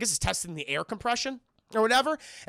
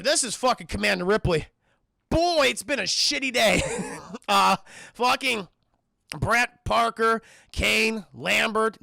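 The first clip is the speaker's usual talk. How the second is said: captain's log voice; 4 dB louder than usual. Retold or imitated. Ripley's log, declaiming.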